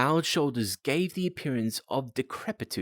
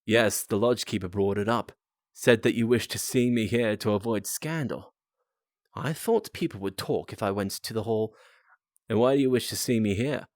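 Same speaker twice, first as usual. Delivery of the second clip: put-on Australian accent. Dying visitor answering Holmes in an Australian accent. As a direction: give the old man a light Australian accent. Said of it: "I can do an Australian accent for this".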